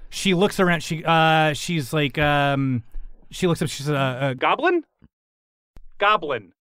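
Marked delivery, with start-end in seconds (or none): 4.3-6.5 one word in a higher creature voice; lightly voiced creature. Dying creature trying to speak, lightly voiced. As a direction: try the word as a question.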